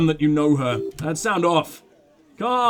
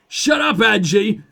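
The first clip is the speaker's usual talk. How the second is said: loud, raised-pitch telling-off; mock-annoyed shout at a friend; exasperated rebuke; 2 semitones higher, 5 dB louder, slower than usual. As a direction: cut them off loudly, half laughing. Voices character snapping at another.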